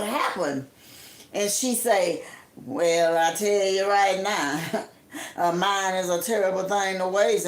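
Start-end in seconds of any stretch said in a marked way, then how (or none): 2.7-7.5 lower, lightly voiced imitation of Helen; a hint of a low older lady voice; imitating Helen. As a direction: put on her voice, low and knowing. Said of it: "I'ma talk just like she talked".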